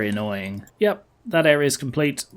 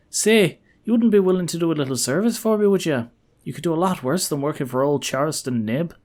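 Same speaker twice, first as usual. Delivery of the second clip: lively, higher character voice; eager old archaeologist; 3 semitones higher than usual. Acted. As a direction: appeal to a stranger for help. Voices Charleston Nib at the dig.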